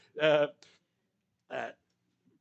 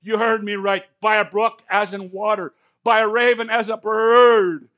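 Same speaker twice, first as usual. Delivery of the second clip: booming louder, slowing on the last line; God's firm reply; 5 semitones higher, 12 dB louder than usual. Acted. The Lord answering Elijah, booming and slow. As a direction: lay down the law, each phrase louder. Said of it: "the Lord replied".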